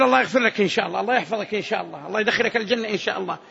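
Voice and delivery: low, quick, offhand well-wishing; noncommittal prayer. Shown as a demonstration. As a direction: toss the blessing off without conviction. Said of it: "يا أخي لا تستثني". (دعاء عابر بلا عزم)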